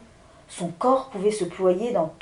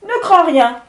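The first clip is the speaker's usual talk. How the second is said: wind spirit; 9 semitones higher, 8 dB louder than usual. Acted.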